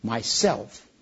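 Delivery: low, resonant single word; deep and low. Acted. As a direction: let it rumble so the earth shakes. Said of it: "very deep and low".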